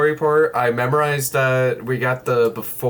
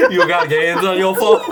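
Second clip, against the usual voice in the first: laughing quote; 4 semitones higher, 4 dB louder than usual. Retold or imitated. Quoting while laughing.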